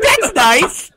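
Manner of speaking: high, dry mock politeness; high sarcastic that's nice; sarcastic reply. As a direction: say it with fake sweetness. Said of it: "I was like".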